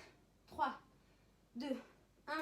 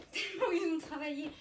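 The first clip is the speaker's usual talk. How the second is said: laughing; 3 dB louder than usual. Real, not acted. Laughs about sore abs.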